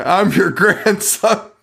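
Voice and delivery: lightly mock the corpse puppet, drawn out; creepy ventriloquist puppet, lightly voiced. Retelling the puppet's line.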